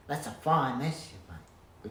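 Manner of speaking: drawn-out reproach leaning on fine; mild cross scolding. Shown as a demonstration. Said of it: "which sounds better than".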